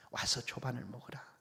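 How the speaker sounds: Jesus softly calling his tired disciples to eat; gentle invitation. Pretend. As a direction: murmur the call to breakfast, "조반을" eased in gently. Jesus quietly calls disciples.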